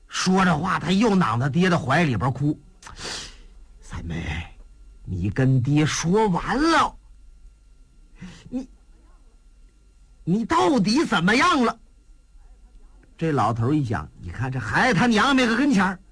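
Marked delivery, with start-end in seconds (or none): 3.8-11.8 gentle worried father. Acted. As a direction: ask the daughter carefully. Father gently questions daughter.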